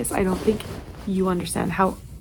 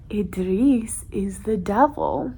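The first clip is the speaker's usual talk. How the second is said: slow angry whisper; slower than usual. Real, not acted. Furious reader vents about character.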